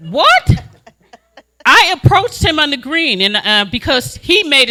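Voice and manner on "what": high laughing what; incredulous what. Real, not acted. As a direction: act stunned with a laugh. Mock disbelief at governor's claim.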